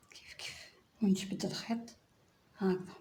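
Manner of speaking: whispered aside. Real, not acted. Crochet teacher murmuring while working.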